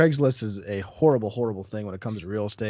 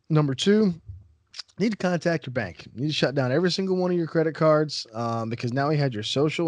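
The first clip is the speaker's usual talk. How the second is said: alarmed advice; 4 semitones higher than usual. Retold or imitated. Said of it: "I didn't say that to her".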